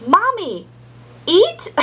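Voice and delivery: put-on very high little-child voice; imitated young daughter. Little daughter addressing mom after licking her knee, high toddler voice. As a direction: pitch it way up like a toddler. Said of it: "she looked at me and she goes".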